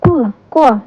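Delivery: "क्व" as a kw blend, said twice; letter sound demo. Shown as a demonstration. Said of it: "sound होती है".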